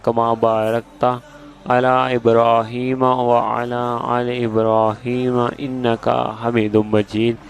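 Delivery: measured, slow Arabic prayer recitation; unhurried chanting of a blessing; slow devotional recitation. Acted. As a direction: recite each phrase slowly and reverently.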